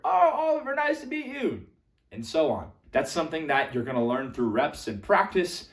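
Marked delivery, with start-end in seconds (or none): 0.0-1.6 high-pitched, cheery club greeting; delighted reply. Acted. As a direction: answer as someone who finally caught the name. Club listener who finally hears.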